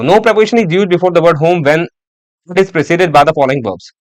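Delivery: slow, deliberate rule read aloud; dictation reading. Shown as a demonstration. Teacher reading a grammar rule aloud to students, slow dictation. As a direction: read the rule slowly so students can write it.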